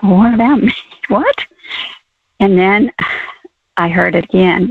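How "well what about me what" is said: surprised self-questioning with a laugh; startled. Retold or imitated. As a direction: caught off guard, rising into a laughing what. Startled reply to God's question.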